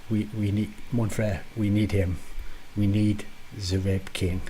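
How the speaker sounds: bad French accent, lightly done; hammed-up French accent. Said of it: "a French accent".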